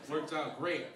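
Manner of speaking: ordinary talk, nothing marked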